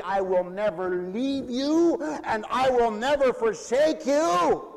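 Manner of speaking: laughing stress on "never", rising at the end; joyful emphatic vow; emphatic promise. Shown as a demonstration. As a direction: drive home both "never"s. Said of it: "make it an emphatic".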